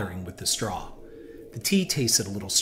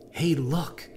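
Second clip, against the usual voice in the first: hissed; 4 semitones higher than usual. A narrator's reading. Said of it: "hissed a female voice".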